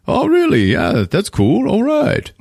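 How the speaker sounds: very high, mock-bashful squeal; hammed-up delight at being praised; flattered writer. Writer hears fan praise his work, hammed-up high bashful delight.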